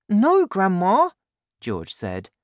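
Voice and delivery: put-on high, loud boy voice; high-pitched little boy; George, protesting. A narrator's reading. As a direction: protest as an alarmed child.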